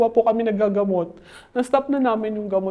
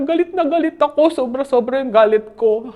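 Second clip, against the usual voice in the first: retold angry outburst; 3 semitones higher, 4 dB louder than usual. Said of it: "Sabi niya".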